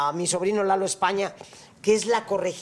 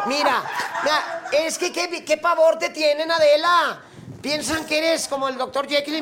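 laughing tease; 5 semitones higher than usual. Real, not acted. Teasing, laughing, higher.

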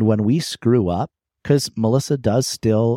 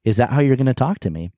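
faster, lightly surprised rather than angry; quick, surprised question; faster than usual. Retold or imitated. Husband caught off guard by his wife's hurtful words, surprised. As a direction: toss it off in mild disbelief. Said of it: "almost surprise".

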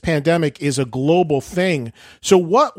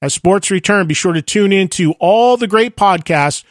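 brisk, upbeat network promo; podcast promo read; 3 semitones higher, 3 dB louder than usual. Acted. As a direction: sell the sports line-up to listeners.

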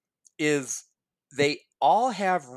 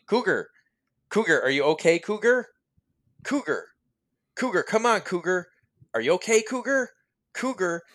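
pleading pilot; 4 semitones higher than usual. Retold or imitated. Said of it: "they had to keep over and over saying".

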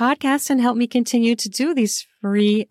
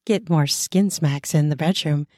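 slow, deliberate promo read; sponsor ad read; slower than usual. Acted. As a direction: sell the product slowly, leaning on each word.

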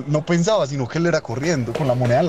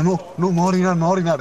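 high, strained wail; near-tears whine; 6 semitones higher, faster than usual. Retold or imitated. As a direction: whimper it high, almost crying.

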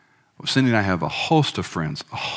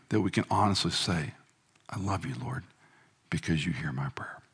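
soft reverent prayer voice, fading quieter; closing prayer; 4 dB quieter than usual. Acted. Preacher leading the congregation in a quiet closing prayer. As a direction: pray softly and reverently.

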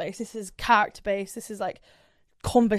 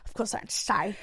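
dramatic announcement; 4 dB quieter than usual. Retold or imitated. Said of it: "that breath was like".

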